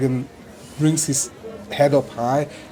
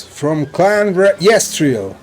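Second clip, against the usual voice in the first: slow, higher booming call; announcer; 4 semitones higher, 5 dB louder, slower than usual. Acted. The announcer presents Karik Sarnus, slow and booming. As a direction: announce the contestant grandly. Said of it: "the announcer goes".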